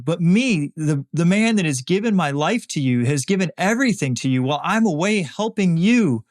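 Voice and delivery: retelling a grieving man crying out at God, only half acted; anguished mock outcry. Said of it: "Simon is screaming this at Jesus".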